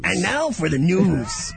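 slow mock anchor, a bit old-sounding; a light old-timey news intro; old newsman. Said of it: "That didn't sound old at all".

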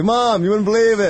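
put-on high, eager child telling mom; excited kid voice. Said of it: "tapping on their mom's shoulder going".

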